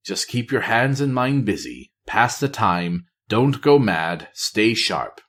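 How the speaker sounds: steady himself under his breath; lightly voiced spy, self-coaching.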